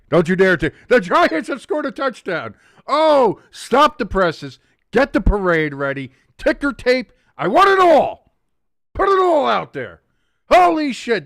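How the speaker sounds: high, loud overjoyed shouting; jubilant. Real, not acted. Streamer demanding a parade, high loud joyful yelling. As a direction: bellow for ticker tape. Celebrating, mock grand announcement.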